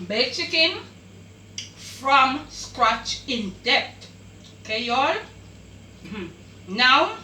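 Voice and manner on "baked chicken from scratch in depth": title announcement. Real, not acted. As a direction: announce the dish name proudly and slowly.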